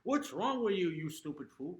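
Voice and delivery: yelling at himself in the mirror as an imagined example; mock self-scolding. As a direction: tear into your own reflection. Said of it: "in front of the mirror and going".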